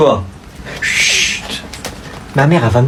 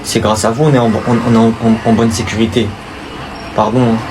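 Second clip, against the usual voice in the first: put-on meek kid; 7 semitones lower than usual. Boy excusing himself to the police, low and meek. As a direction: shrink your voice before the officer.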